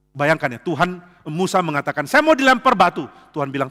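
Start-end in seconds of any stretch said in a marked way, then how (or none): 2.1-3.1 whining. Acted. Moses complaining to God.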